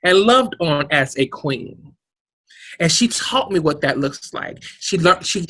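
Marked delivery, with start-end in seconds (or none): 0.0-1.9 raised, louder, insisting on respect; proud declaration. Real, not acted. Trans woman telling host she deserves respect, raised and proud. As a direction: claim your respect boldly.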